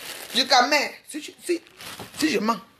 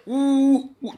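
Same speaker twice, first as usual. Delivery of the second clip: mock booing; 3 semitones higher than usual. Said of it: "où on a fait".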